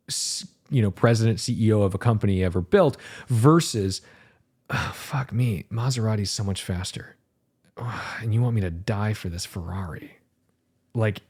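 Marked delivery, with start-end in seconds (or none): 4.7-10.2 softer, sighing mock complaint; a fed-up driver grumbles under his breath, with a sigh; grumbling driver. Driver grumbling back at Enzo, softer and weary.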